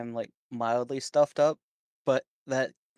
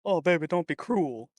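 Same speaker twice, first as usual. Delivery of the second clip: famous singer's voice; 4 semitones higher than usual. Acted. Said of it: "sounds like Elvis Presley".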